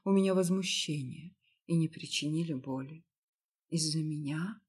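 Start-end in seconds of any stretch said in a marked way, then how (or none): 3.7-4.6 sad question. Acted. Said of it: "грустно спросила я".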